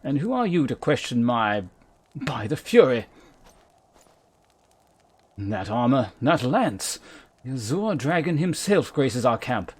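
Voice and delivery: hint of a grand knight; commander Gentilot. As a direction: read the camp leader with formal weight. Voices Gentilot, leader of Convictors.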